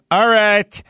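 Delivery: mock a grandma who won't say hi; mean grandmother. Grandma brushing off a grandchild on the phone, mildly mean. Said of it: "my grandmother was mean".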